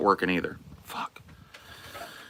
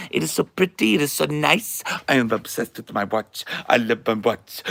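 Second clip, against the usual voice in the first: Disney adult voice. Acted. Streamer lightly gushing as a Disney adult. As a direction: gush over the watch like a starry-eyed cartoon. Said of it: "not good enough at being a Disney adult".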